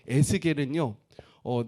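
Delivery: ordinary delivery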